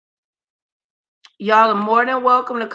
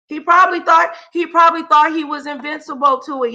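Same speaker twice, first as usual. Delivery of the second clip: rising outraged rant; 5 semitones higher than usual. Real, not acted. Ranting at Trump, building up.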